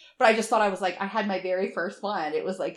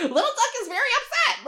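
laughing; 5 dB louder than usual. Retold or imitated. Mom narrating son's tantrum, laughing.

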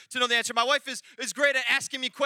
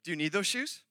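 softer, lower check-in with a rising end; quiet, patient questioning; unruffled wife; 3 semitones lower, 5 dB quieter than usual. Retold or imitated. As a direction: ask calmly, with no anger. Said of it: "She won't get upset. She won't get mad".

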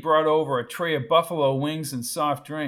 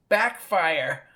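put-on teasing girl voice; 2 semitones higher, 4 dB louder than usual. Lulu teases Wendell.

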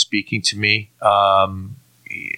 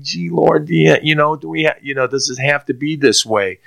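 whining; 6 semitones higher than usual. Retold or imitated. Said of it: "it was more whining".

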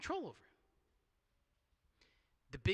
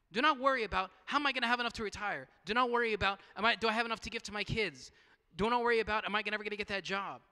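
emphatic preaching; 3 semitones higher, 5 dB louder, faster than usual. Real, not acted. Preacher hammering the worry list.

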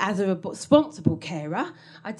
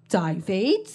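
high amused query, slow and giggly; laughing, high and slow; 4 semitones higher, much slower than usual. Retold or imitated. Waving a gun at David, laughing and high. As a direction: wave it about laughing like a treat was found. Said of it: "Like I'd found a hidden packet".

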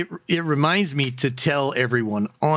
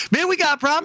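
voiced higher as a tough guy; tough guy line; 10 semitones higher, much faster than usual. Meme guy confronting the other man, mock tough voice. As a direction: play the meme guy squaring up. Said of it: "the guy goes".

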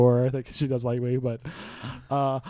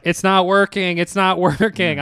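raised-pitch mock complaint, laugh breaking in; exasperated; 3 semitones higher, 5 dB louder than usual. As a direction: re-enact whining to the landlord. Retold complaint on FaceTime to landlord.

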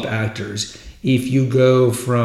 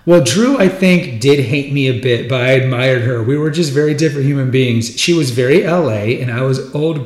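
amateur put-on British accent; bad British accent; 2 semitones higher than usual. Podcaster quotes an actor about his co-star, bad British accent. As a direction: read it out in a shaky attempt at British. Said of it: "my really bad British accent".

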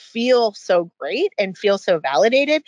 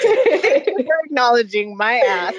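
laughing mock thanks; 3 semitones higher than usual. Laughing through a retold quote.

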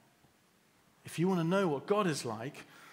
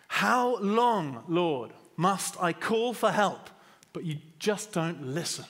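distraught prayer; 3 semitones higher, 5 dB louder, slower than usual. Retold or imitated. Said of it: "he is so distraught with life".

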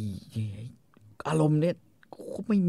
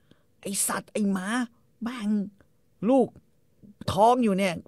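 mock scolding wife; 10 semitones higher than usual. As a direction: berate him in a high voice. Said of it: "เมียก็ด่า".

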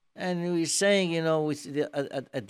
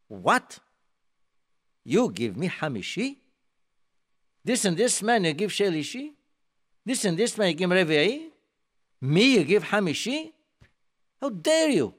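higher and louder, indignant shouting; furious outburst; 5 semitones higher, 5 dB louder than usual. Retold or imitated. Offended man yelling at the beadle over his honor, furious. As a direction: explode at the beadle over the insult. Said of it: "And the man explodes".

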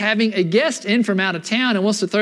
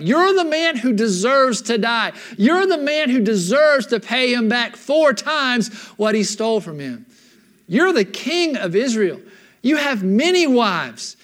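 stern accusation; 3 semitones higher than usual. Retold or imitated. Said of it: "He's like".

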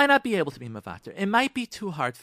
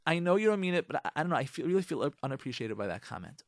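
gentle feedback; 4 semitones lower, 4 dB quieter, faster than usual. Shown as a demonstration. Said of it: "Say to him".

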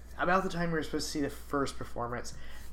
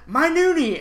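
doting dad; 11 semitones higher, 9 dB louder than usual. Retold or imitated. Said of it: "He's like".

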